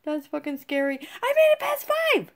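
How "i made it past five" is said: triumphant squeal. Real, not acted. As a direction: stretch it out in pure delight. Triumphant cry after win.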